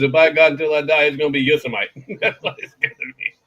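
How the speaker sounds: defiant vow. Retold or imitated. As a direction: swear it stubbornly. Stubborn vow, quoted man.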